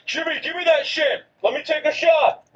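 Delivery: high, put-on eager voice; hammed-up plea for a turn; mock eager demand. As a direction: pitch it up, playfully demanding. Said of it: "I wasn't like".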